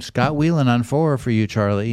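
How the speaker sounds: lightly imitated receptionist calling out a line; office call-out. Voicing the announced phone call.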